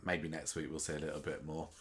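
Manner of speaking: talking through a yawn. Real, not acted. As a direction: let a yawn stretch the words. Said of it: "Bit of a yawn there".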